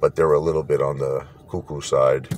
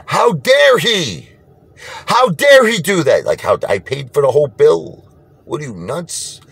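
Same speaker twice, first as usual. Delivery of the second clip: much higher and louder, slow, outraged whine; mock screaming brother; 11 semitones higher, 6 dB louder than usual. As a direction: ham up the furious brother-in-law's rant. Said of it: "He went home screaming".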